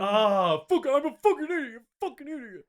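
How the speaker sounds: high, loud self-scolding; exasperated outburst. Real, not acted. Realises he got names wrong.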